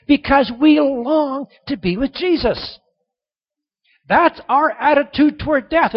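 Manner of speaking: loud, high, slow ringing proclamation; preaching at full force. Acted. Preacher proclaiming to the congregation, loud, high and slow. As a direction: drive it home with joy. Preaching climax, much louder and higher.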